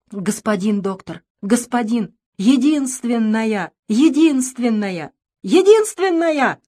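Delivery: pleading, rising to a high loud cry; begging the doctor, voice breaking upward; ringing youthful cry. Acted. Father begs the doctor for his only daughter, crying out. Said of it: "выкрикнул он вдруг по-юношески звонко".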